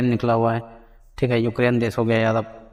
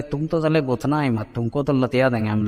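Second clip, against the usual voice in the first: mock threat. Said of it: "बोलता है कि".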